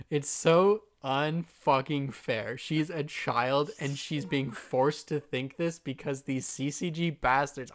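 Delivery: slow, emphatic heartbroken outrage; real distressed indignation; upset, near tears. Real, not acted. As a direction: drag out the words, genuinely upset. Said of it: "I'm crying right now".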